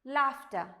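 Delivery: "laughter" as LAAF-tuh; model pronunciation. Shown as a demonstration. Teacher reading the next word, careful model pronunciation. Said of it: "How do you read it?".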